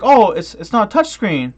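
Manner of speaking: high, loud mock kid voice pushing on the TV; mocking dumb kid. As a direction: ham up a clueless kid shoving harder. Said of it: "he's like".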